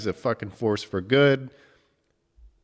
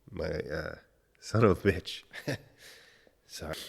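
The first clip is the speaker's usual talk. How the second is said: breaking down; 3 semitones lower, 7 dB quieter than usual. Real, not acted. Host breaks down mid-sentence.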